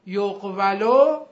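یقولو slow and loud, yoq-va-lo; prompting repetition. Shown as a demonstration. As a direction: call out یقولو for the class as yoq-VA-loo. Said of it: "بگید".

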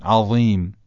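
"عظیم" with first vowel leaning toward alef and thick ظ; correct, heavy ẓāʾ. Shown as a demonstration. Teacher models the correct sound, "عظیم" said heavy. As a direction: darken the opening of "عظیم" into a heavy ظ. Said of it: "درست و درشت تلفظ بشه".

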